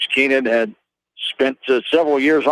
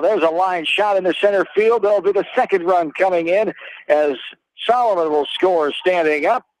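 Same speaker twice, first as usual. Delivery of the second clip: higher-pitched live scoring call, no shouting; excited play-by-play; 3 semitones higher than usual. Real, not acted. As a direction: call the run coming in with a lift in pitch.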